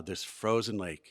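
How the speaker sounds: usual speaking voice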